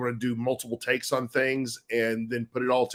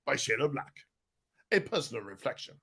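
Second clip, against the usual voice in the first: softer mock-solemn announcer read; deep announcer voice; 2 semitones lower, 9 dB quieter than usual. Shown as a demonstration. Narrator demos the book credit in a mock-solemn announcer voice. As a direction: hush it down like a serious documentary credit. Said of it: "I'll drop about three octaves".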